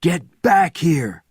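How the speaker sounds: high, loud and slow; shouted. A narrator's reading. Bourne shouting Benjamin back to the jeep, high and loud. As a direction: bark the order. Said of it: "shouted Bourne".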